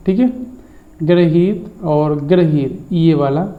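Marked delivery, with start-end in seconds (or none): 1.0-2.9 slow contrast. Shown as a demonstration. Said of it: "शुद्ध होता है".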